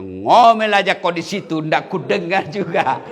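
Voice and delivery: mild mock taunt, slowing; husband's taunt. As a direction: gloat over her in the well. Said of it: "Dia bilang suaminya".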